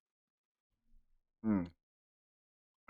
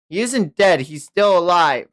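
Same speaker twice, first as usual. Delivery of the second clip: alarmed shout; 8 semitones higher, 6 dB louder than usual. Acted. Reads a character's alarmed lines.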